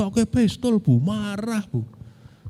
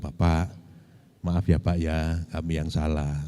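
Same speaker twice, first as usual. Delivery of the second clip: soft, lower, humbly bowing apology; humble apology; 7 semitones lower, 9 dB quieter than usual. Retold or imitated. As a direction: soften and lower the voice, begging pardon. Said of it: "lalu saya merendah".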